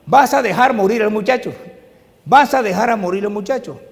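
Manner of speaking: repite la advertencia de la madre en voz alta; la madre insiste, voz alzada; cita de la madre más alta. Retold or imitated. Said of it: "Y mi mamá me repetía". (advertencia de la madre, más fuerte y alta)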